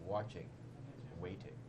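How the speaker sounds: ominous dramatic reading. Shown as a demonstration. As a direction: read it like a creepy storyteller. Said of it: "I will read it in dramatic voice".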